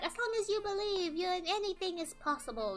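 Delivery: cheesy inspirational. Pretend. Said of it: "I'm not gonna be like".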